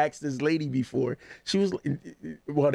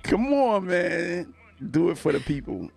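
hype man; 6 semitones higher than usual. Real, not acted. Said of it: "this is the greatest hype man ever".

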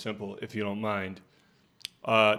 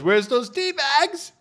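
wife; 5 dB louder, slower than usual. Retold or imitated. Wife voiced in retold story.

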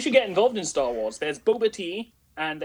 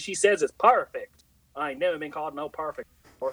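mock Southern accent. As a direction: play a Southern friend's hick accent lightly. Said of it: "I'm gonna do it like this".

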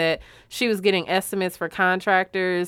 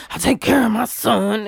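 a slightly louder "I take care of my son"; S0 imitating Ralph's weak yell, a touch louder; imitating a mild yell; 2 semitones higher, 4 dB louder than usual. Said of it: "even when he was yelling".

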